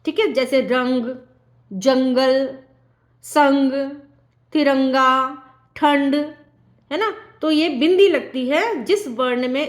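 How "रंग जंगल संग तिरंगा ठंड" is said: रंग, जंगल, संग, तिरंगा, ठंड said separately with a nasal hum; nasal anusvar. Shown as a demonstration. Teacher gives anusvar examples, nasal रंग, जंगल, संग. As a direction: dwell on the nasal in each example word. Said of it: "हम नाक से करते हैं".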